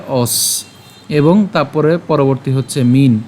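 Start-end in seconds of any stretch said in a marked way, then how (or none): 0.1-0.7 "অস" as one low, soft syllable with o and closing s; pronunciation demo. Shown as a demonstration. Teacher answers how it is pronounced, isolated "অস". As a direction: say "অস" alone, ending on s. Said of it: "তাহলে উচ্চারণটা কেমন হবে".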